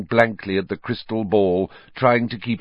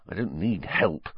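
softer muttered aside; whispered; 5 dB quieter than usual. Acted. Ron to friends in class, soft aside. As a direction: keep it down, a quiet aside. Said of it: "Ron whispered".

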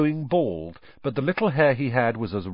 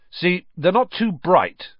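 put-on teen boy voice; 9 semitones higher, 5 dB louder than usual. George voiced, cheerful.

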